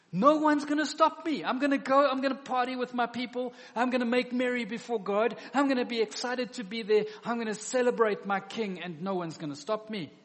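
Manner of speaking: a worshipper exulting that no one will stop his celebration; defiant excitement. Retold or imitated. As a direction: shout your joy like nobody can stop you. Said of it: "you won't stop me from having a good time".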